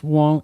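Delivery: "Wong" sung out like the ad's short brand call; ad jingle imitation. Mocking the new Sega ad jingle, sung brand call. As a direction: echo the ad saying "Wong" instead of Sega. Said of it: "the ad will show up and it goes".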